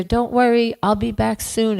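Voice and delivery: calling to son. Acted. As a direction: call back over her shoulder, hurrying off. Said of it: "And she's there".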